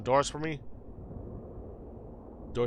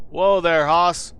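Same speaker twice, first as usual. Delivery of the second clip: loud, slow Southern cowboy holler; hollering frontier cowboy; cowboy drawl; 2 semitones higher, 7 dB louder, slower than usual. Acted. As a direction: rein in a wild horse, Texas style. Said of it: "Gabby doesn't talk like that".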